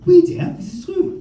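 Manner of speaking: high, put-on teacher voice; indulgent teacher. French teacher confirming the pupil's word, high voice.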